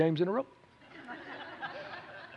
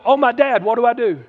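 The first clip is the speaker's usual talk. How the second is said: high-pitched, louder pretend panic; comic alarm, pitched up; mock freak-out; 6 semitones higher, 5 dB louder than usual. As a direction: act helplessly flustered, hammed up. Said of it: "Jesus wasn't freaking out going".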